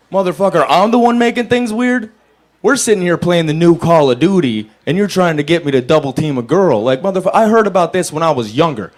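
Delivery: high, loud outraged rant; a friend's indecent proposal sets off a loud, high rant; indignant rant. Retold or imitated. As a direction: blow up at your buddy in disbelief. Ranting at his buddy.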